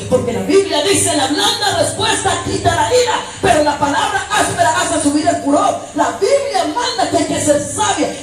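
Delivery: high, loud scripture declaration; forceful preaching. Real, not acted. Preacher declaring to wives what the Bible commands, forceful cry.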